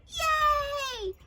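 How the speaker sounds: high, gleeful hurrah; cheering. A narrator's reading. Crowd celebrates bully's capture, cheering. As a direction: cheer it out long. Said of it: "the crowd cheered".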